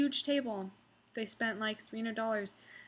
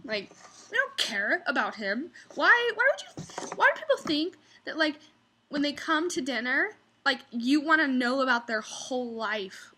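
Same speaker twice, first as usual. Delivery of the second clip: exasperated rant; 5 semitones higher, 4 dB louder than usual. Pretend. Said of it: "It's like".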